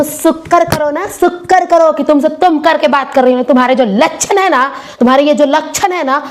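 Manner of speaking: acted brash, indignant wife; mouthy, mocking telling-off; scornful scolding. Acted wife scolding over respect.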